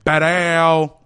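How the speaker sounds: shouted, punchy ad sting; loud exclamation. Acted. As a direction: belt it out like a hype man.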